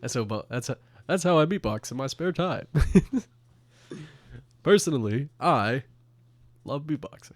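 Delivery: lightly imitated president, phrase by phrase; mock statesman with pauses between phrases; Barack Obama. President boasting about his spare-time beatboxing, lightly put-on presidential voice. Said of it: "President Barack Obama speaking".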